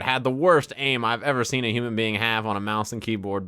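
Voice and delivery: normal talking voice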